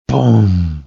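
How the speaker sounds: long falling boom; slow, resonating boom; imitated footstep boom. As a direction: make a heavy thud with the voice.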